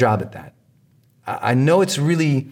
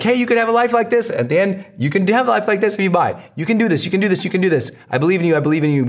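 cheering on; 7 semitones higher, faster than usual. Shown as a demonstration.

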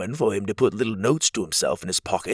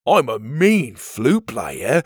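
a dreamy, louder odd creature voice; dreamy Petey; 2 semitones higher, 5 dB louder, slower than usual. Acted. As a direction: drift off into a daydream. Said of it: "Petey said dreamily".

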